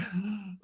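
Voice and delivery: short, high intake of breath; imitated gasp of panic; panicked gasp. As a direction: gasp as if put on the spot. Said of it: "I'm panicking".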